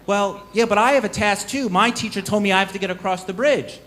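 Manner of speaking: a hint of an eager student pleading his case; novice voice. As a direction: novice voice pitched a little up. Novice voiced in told story.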